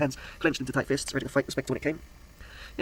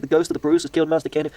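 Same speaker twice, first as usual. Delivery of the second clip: frightened cry; 3 semitones higher, 7 dB louder than usual. Acted. Frightened groundskeeper cries out.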